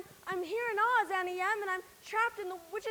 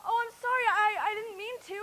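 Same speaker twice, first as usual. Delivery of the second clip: sorry through sobs; crying out an apology; tearful apology. Acted. Dorothy apologizing to the witch, crying.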